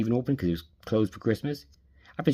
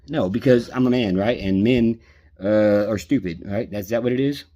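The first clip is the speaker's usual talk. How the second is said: louder, slow mocking jab; sarcastic; 4 dB louder than usual. Real, not acted. Mocking friend's view that men are stupid, sarcastic and louder. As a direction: throw her logic back at her sarcastically.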